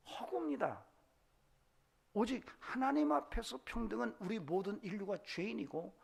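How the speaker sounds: high, insistent pulpit delivery; impassioned preaching. Real, not acted. Preacher telling the congregation equality exists only before God, impassioned.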